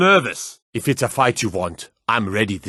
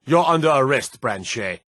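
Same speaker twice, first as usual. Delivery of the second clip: stern arrest; 2 semitones higher than usual. Acted. Guard arresting Branche for theft, stern raised call. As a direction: lay down the law.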